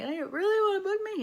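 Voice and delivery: high, incredulous question; can't believe her luck; disbelief. Retold or imitated. Agent confirms the booking, she asks in disbelief.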